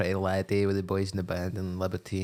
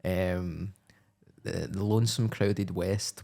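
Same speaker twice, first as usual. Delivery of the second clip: normal talking voice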